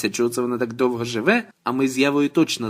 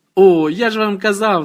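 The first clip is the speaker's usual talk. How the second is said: gleeful, high, loud joyful cry; 8 semitones higher, 7 dB louder than usual. Narrator reads an old man's cry to the audience at a show: joyful shout to the whole hall. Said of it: "на весь зал радісно вигукнув".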